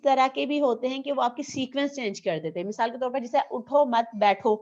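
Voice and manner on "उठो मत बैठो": slow, deliberate "उठो मत बैठो"; louder, measured example command "उठो मत बैठो"; phrased command. Shown as a demonstration. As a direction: say "उठो मत बैठो" word by word, firmly. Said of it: "या ये कह सकते".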